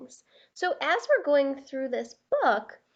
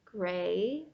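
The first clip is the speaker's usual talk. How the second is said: loud, groaning tired crayon voice; weary Gray Crayon; 7 dB louder than usual. Acted. Gray Crayon pleading with Duncan for small things, worn out. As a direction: moan about the huge animals.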